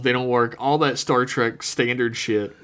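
hiccuping while talking; with hiccups. Real, not acted. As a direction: speak through hiccups. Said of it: "Sorry, I have hiccups".

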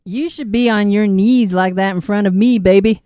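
put-on southern accent. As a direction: read it with a playful southern twang.

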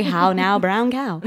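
"how now, brown cow" recited with careful British vowels; British elocution drill. Shown as a demonstration. Guest showing her childhood speech lessons, British elocution. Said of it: "That's very British".

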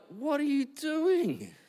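what are you doing, come on; exasperated friend pleading with a distracted husband; exasperated plea. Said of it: "And I'm like".

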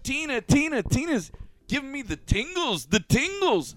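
put-on high, loud sing-song DJ crooning a girl's name; swooning DJ voice, high and loud; smitten DJ. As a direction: ham up a lovestruck DJ on the mic. DJ crooning over the mic.

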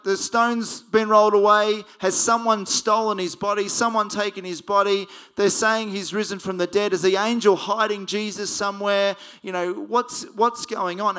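panicked women. Retold or imitated. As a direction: rush out worried questions. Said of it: "They're like".

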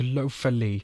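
mock German place name; generic German accent. Shown as a demonstration. Host welcoming you to a German place, German accent. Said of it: "in a generic German accent".

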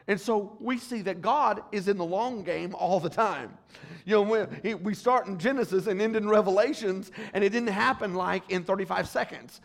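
a lift into pulpit preaching; full-force preaching. Acted. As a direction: preach it out to the congregation. Pastor builds to full preaching.

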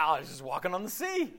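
mock-amazed line broken by a laugh; laughing mock awe. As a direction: chuckle through it as if unimpressed. Joking about walking on water.

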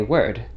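"word" halfway between American and British; "word" as a mix of rhotic and non-rhotic; in-between pronunciation. Shown as a demonstration. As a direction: say "word" with a softened R, in the middle. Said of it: "I just say something in the middle".

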